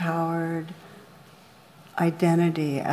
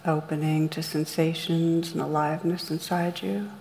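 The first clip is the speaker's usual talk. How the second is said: calm, measured meditation guide with long pauses; guided meditation. Real, not acted. Meditation teacher leading listeners through rain on blame, guided meditation. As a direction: guide listeners gently inward, leaving room between phrases.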